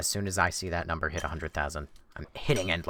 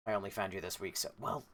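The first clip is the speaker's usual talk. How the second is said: much softer, higher, hushed aside; soft near-whisper; 10 semitones higher, 7 dB quieter than usual. Real, not acted. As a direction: murmur it like a secret.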